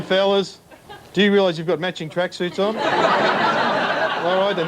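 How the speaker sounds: ordinary delivery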